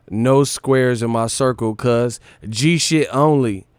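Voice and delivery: mock tough quote. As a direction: lean hard into the gangster talk, half mocking.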